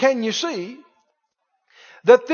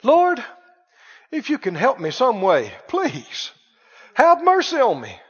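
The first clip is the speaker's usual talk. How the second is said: imitated pleading prayer. Preacher imitating how Christians talk to God, mock pleading. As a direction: act out a halting, begging prayer. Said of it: "have you heard talk like this".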